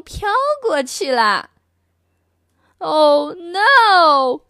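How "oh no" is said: louder, higher mock yell; a father shouting in alarm; louder, higher acted yell. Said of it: "yelled the father".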